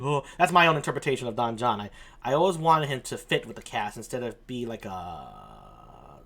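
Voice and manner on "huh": mopey huff. Retold or imitated. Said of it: "and sighs and".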